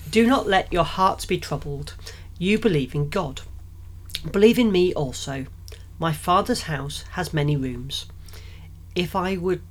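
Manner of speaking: measured scripture reading; best reading voice. Acted. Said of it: "I'll put my best reading voice on".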